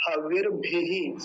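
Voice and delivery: हविर भी spelled out slowly, each syllable clear; pronunciation drill; slow careful Sanskrit. Shown as a demonstration. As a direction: sound out हविर भी slowly like a Vedic teacher. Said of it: "ये देखिए".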